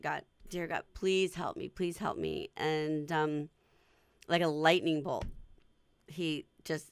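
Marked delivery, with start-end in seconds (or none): 0.0-2.5 mock, earnest, desperate pleading with swooping pitch. Retelling praying at a cash register, imitating own begging. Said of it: "started begging".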